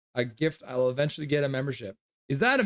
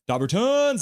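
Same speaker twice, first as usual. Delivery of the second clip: much higher and louder, stretched out; excited pet name call; 10 semitones higher, 4 dB louder than usual. Real, not acted. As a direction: call the dog's nickname with glee. Calling her dog by pet name.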